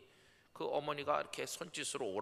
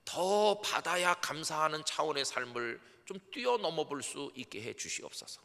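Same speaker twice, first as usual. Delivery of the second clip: higher, louder heartfelt prayer; fervent prayer; 5 semitones higher, 3 dB louder than usual. Shown as a demonstration. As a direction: pour it out to God. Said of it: "이런 기도를 했습니다".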